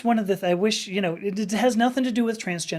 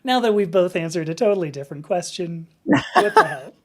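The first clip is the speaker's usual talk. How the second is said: laughing; 6 dB louder than usual. Real, not acted. Both answered the wrong question.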